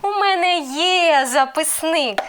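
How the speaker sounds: slow, drawn-out statement, є high then easing down; stretched-out answer falling through записник; answer intonation. Shown as a demonstration. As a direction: answer firmly with no questioning lift after є. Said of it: "And the answer will be".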